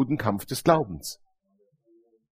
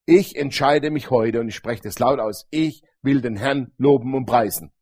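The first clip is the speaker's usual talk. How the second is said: firm self-talk; 4 semitones lower than usual. Shown as a demonstration. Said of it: "wenn du dein Herz erziehst und sagst".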